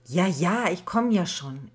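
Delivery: mild grumpy reply to mother; irritated. Acted. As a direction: snap back half-annoyed. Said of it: "erwiderte Alicia gereizt".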